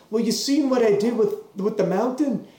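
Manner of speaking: lightly put-on bad Irish accent; Conor McGregor Irish accent. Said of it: "this is my terrible Irish accent".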